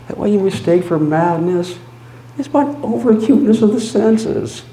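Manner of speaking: high, loud, fast; frantic insistence. Acted. Narrator arguing to the listener that he is not mad, frantic. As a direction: rush to prove he's sane.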